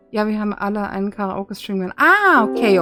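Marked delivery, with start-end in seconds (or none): 2.0-2.8 surprised. Real, not acted. Sudden realization.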